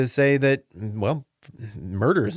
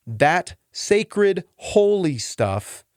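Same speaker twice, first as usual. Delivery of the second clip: mock reverence; 5 semitones higher, much slower than usual. Mocking ritual priority.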